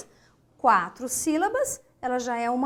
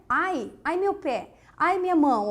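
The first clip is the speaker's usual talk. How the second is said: mock cry of pain; 3 semitones higher than usual. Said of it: "Ai, interjeição".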